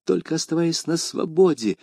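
тихо, вполголоса; quick whisper. A narrator's reading. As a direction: tell him secretly so the guards don't hear. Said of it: "быстро шепнул ему Д'Артаньян".

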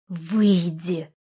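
a short angry word pushed through gritted teeth. Acted. Heroine telling Artur to leave, through gritted teeth. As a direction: hold the anger in, force it out tight. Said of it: "процедила я сквозь зубы".

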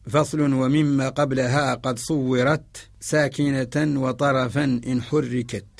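slow, measured recital of a didactic verse; verse recitation. Shown as a demonstration. Teacher quotes the imam's verse as evidence, slow recitation. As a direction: draw out each word of the verse slowly.

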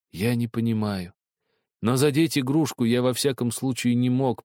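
ordinary delivery, nothing marked

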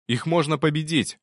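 urgent shout to an ally. Acted. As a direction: call it out across the fight. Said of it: "крикнул я".

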